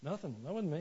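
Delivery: soft, sheepish mock denial; feigned innocence. Guilty kid to dad after screaming, soft innocent denial. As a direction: play it small and innocent.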